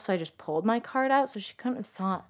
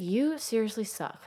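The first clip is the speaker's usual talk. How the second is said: imagined retort; 5 semitones higher than usual. Retold or imitated. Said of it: "I wanna be like".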